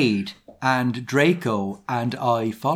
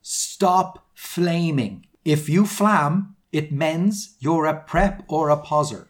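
slow, emphatic mock plea, pitched a little up; lightly mocked author's desperation; desperate pleading; 3 semitones higher, slower than usual. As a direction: plead with the haters, word by word. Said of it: "desperately pleading for people to stop".

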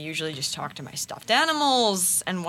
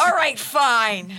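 sinister; 3 semitones higher, 4 dB louder, much slower than usual. Acted. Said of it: "that was very sinister".

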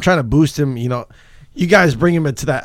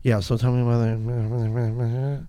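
slow, lower, softer mock host; awkward interviewer; 4 semitones lower, 6 dB quieter, slower than usual. Mocking the awkward podcast host, slow and low. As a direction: drag it out like a stiff podcast host. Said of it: "she's just awkward, too, when she's interviewed".

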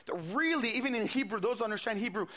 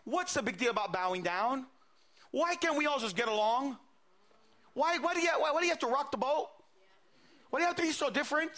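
pleading king; 3 semitones higher than usual. Acted. King urging three prophets to bow down, mildly pleading. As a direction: reason with them, pitch rising through the questions. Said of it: "he would say".

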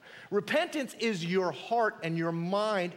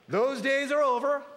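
raised, loud, stretching the words; emphatic declaration; 6 semitones higher, 4 dB louder than usual. Real, not acted. Preacher declaring the end of the old ways, loud and raised. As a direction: announce it with full force.

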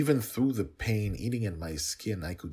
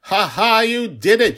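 very high, loud laughing delight; laughing cheer; 16 dB louder than usual. A narrator's reading. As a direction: laugh with joy mid-fall. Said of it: "she laughed while falling".

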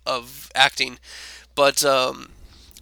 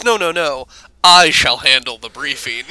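smug self-importance; 6 dB louder than usual. Retold or imitated. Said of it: "Josh is smug and full of himself".

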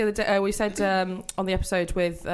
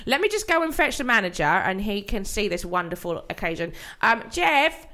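fawning clerk; 4 semitones higher, 4 dB louder than usual. Acted. Fawning clerk fetches manager.

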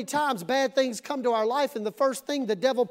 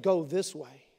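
stern parent; 7 semitones lower than usual. Acted. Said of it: "'cause he ain't playing".

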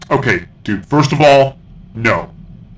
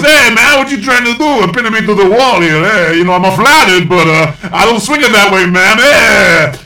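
Toydarian voice; 7 semitones higher, 3 dB louder than usual. Retold or imitated. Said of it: "And so he goes".

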